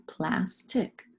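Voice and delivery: slow "plastic" in two beats; syllable by syllable. Shown as a demonstration. Teacher putting the word together, slow "plastic" in two parts. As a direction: stretch and split "plastic" into plas, tic. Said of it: "Fill your syllables".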